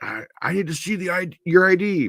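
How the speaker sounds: play-acted very high, drawn-out, deliberate cop-style screaming. Recounting being stopped by police with guns drawn, imitating a cop screaming. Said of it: "the cops like now screaming at me".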